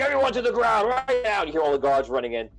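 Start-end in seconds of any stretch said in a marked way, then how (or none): 0.0-1.4 guard's command. Acted. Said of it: "You're like".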